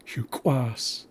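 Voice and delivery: Huquas said hyu-kwas; Haisla word demo. Shown as a demonstration. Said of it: "is the wild rice plant".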